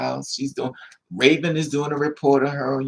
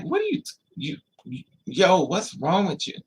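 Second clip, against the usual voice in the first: shocked; 3 semitones higher than usual. Retold or imitated. Woman's shocked reaction voiced.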